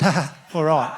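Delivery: mock sniggering reply; laugh, then agree doubtfully; knowing chuckle. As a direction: imitate an unreassuring helper.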